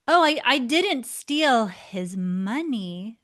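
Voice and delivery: "Oh" dipanjangkan dengan nada naik lalu ucapkan pelan dan ragu; slow, hesitant denial. Shown as a demonstration. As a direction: penyangkalan yang lambat dan terbata-bata. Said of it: "you can see how the same words deliver a very different message".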